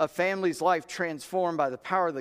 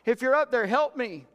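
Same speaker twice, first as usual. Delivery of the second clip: desperate plea; 9 semitones higher, 4 dB louder than usual. Retold or imitated. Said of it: "He says".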